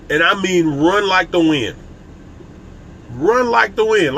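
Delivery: slow, drawn-out run like the wind; slow emphatic urging. Shown as a demonstration. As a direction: stretch out "run like the wind" and lean on "run". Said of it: "like they say in Toy Story".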